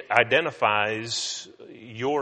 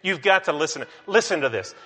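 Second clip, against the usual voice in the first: calling out eagerly; 4 semitones higher, 5 dB louder, faster than usual. Retold or imitated. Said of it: "I called to her".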